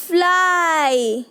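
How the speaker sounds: slow, drawn-out फ्लाई with a long ai; slow demo word. Shown as a demonstration. Teacher sounds out a word for children, slow and drawn out. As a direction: stretch फ्लाई out so kids catch the ai. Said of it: "ज़रा ध्यान से सुनिए".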